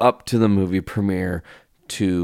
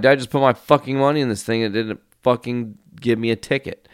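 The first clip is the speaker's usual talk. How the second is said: fast, louder, higher indignant rant; fast exasperated complaint to the parking attendant; retold outrage; 5 semitones higher, 3 dB louder, faster than usual. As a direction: replay your fury at the pay machine. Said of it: "genuinely pissed off".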